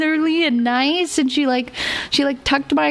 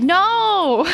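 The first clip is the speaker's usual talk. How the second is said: a sharp imitated correction; snapping no in a retold scold; mock sharp no; 7 semitones higher than usual. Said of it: "and she said".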